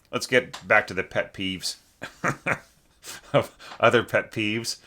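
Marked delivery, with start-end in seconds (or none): 2.2-4.8 laughing at herself mid-phrase; kind gentle laugh. Real, not acted. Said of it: "I'm not laughing at you. I'm laughing at my own".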